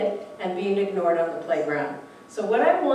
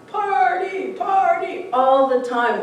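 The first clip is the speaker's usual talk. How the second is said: party shouted high and loud; excited party cry; 9 semitones higher, 4 dB louder, slower than usual. Retold or imitated. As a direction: hype it up, mimicking a partygoer. Son-in-law who parties nonstop.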